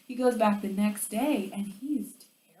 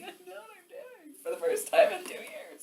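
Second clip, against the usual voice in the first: excited; 12 semitones higher than usual. Retold or imitated. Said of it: "'cause I'm like".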